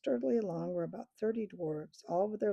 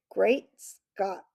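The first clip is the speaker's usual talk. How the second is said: a touch of louder surprise; mild startled outburst; surprised exclamation; 9 dB louder than usual. Acted. Eustace reacting to Jill's news, mildly surprised.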